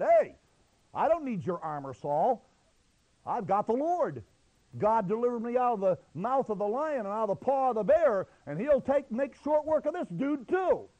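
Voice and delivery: bold declaration, building high and loud; fearless. Acted. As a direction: build to a confident boast. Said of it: "David was not fearful".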